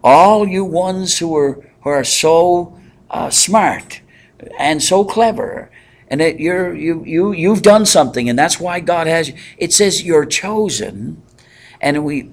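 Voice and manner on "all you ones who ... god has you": lightly mocking voice of a flatterer; mocking flattery. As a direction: sarcastically flatter the smart ones. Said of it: "He's not saying to them".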